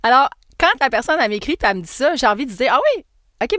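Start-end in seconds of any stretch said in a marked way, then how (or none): 2.8-3.6 high, loud "oh really?" reaction; exaggerated, skeptical surprise; mock surprise. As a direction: feign sudden surprise. Acting her surprised reply to sender.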